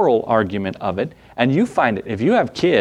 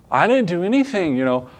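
high-pitched mock protest; hammed-up kid denying blame; dramatic child; 4 semitones higher than usual. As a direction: protest innocence like an upset little one. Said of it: "It's really, really dramatic usually".

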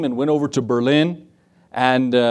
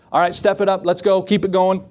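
higher, calling the stroke like a coxswain; lightly mock-shouted cadence calls; coxswain yelling; 4 semitones higher than usual. Coxswain calling his rowers in a mild mock yell. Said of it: "he yells out to him".

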